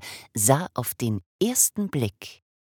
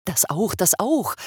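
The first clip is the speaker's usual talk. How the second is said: higher, louder, happy; cheerful call; 8 semitones higher, 5 dB louder than usual. Acted. Father happily agreeing with the mother, cheerfully loud. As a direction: call out gladly. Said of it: "rief der Wassermann fröhlich".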